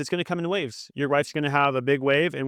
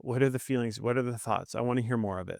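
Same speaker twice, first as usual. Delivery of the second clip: gentle, inviting tone; 4 dB quieter than usual. Shown as a demonstration. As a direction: softly give permission to share. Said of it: "Do you hear the tone of my voice?".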